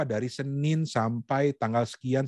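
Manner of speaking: slow, distinct delivery of the dates; clear articulation. Shown as a demonstration. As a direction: take time over every word. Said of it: "itu kita melakukan dengan jelas".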